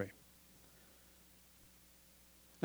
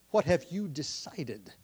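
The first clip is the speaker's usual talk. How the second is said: slow, deliberate question; slower than usual. Shown as a demonstration. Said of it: "That's how I worded it".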